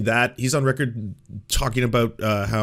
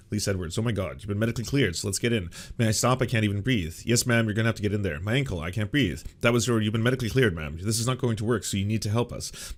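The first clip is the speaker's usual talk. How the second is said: brisk, even news reading; news article read-aloud; 3 semitones lower than usual. Real, not acted. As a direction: read the report straight through, quotes included.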